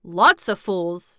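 loud, slow country scorn; a gruff old gardener's verdict; contemptuous old Yorkshireman; old Yorkshire gardener, scornful. Acted. Voices old gardener Ben.

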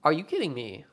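"Are you kidding me?" said dry and level, leaning on kidding; a flat, falling "Are you kidding me?" with kidding weighted; deadpan. Retold or imitated.

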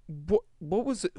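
confused whisper. Retold or imitated. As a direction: whisper it in disbelief. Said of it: "And it's like".

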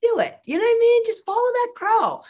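high, loud, gleeful push; excited urging. Real, not acted. Host's guest urging listeners to follow that crow, excited and loud. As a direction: cheer them on to just go for it.

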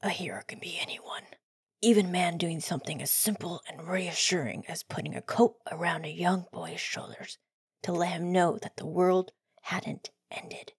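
a hint of a whispered Batman; Batman impression. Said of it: "my best Batman impression".

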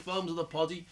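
tipsy Scouse greeting; boozy natural Scouse. Shown as a demonstration. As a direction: let the Scouse out. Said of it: "And then you have a bevy".

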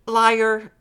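put-on loud, high, drawn-out childish jeer; interrupting accusation. A narrator's reading. Little sister cuts brother off, loudly accusing. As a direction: cut in, stretching the word high and loud. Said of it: "she interrupted".

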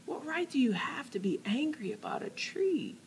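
hushed unvoiced whisper. God challenging Jonah again, now in a whisper. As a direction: drop it to a whisper. Same words then whispered.

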